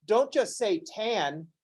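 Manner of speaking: a mildly prissy "Don't just say tan"; slow, soft, mock-corrective tone; mock scolding. The teacher mimicking pedants correcting others, in a mock scolding tone. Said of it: "are like all".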